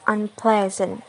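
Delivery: "unpleasant" with the second syllable strong; stress on PLE. Shown as a demonstration. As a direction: keep UN light and lean on PLEA. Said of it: "The stress remains on ple".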